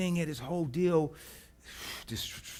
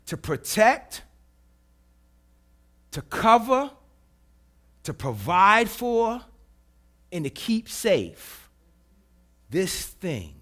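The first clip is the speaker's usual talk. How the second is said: louder and louder, hammering each phrase; building preaching shout; 2 semitones higher, 5 dB louder, slower than usual. Real, not acted. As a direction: preach it with rising force.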